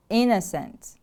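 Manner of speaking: "Innocent" with the stress on IN; stress on first syllable. Shown as a demonstration. Teacher models the word for repeating, stress on IN in "Innocent". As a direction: stress the opening of "Innocent" and fall away. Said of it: "The stress is on the first syllable".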